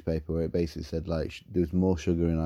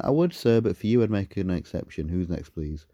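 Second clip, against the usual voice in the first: sarcastic retort; 3 semitones higher than usual. Retold or imitated.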